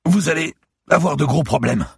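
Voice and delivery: a beaten lawyer gasping in fear; frightened bleeding man pleading with the cop; terrified captive. Acted. Lawyer threatens while panicking.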